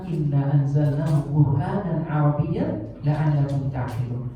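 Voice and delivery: slow, measured Arabic recitation; Quran recitation. Acted. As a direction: recite the verse slowly and reverently. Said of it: "Allah mengatakan dalam Al-Quran". (bacaan ayat Al-Quran yang pelan dan khidmat)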